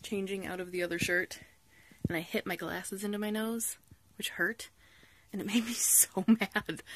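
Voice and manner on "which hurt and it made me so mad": pained whisper. Real, not acted. Wincing aside about hurt nose.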